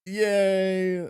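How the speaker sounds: high excited cheer. Real, not acted. Cheering the news.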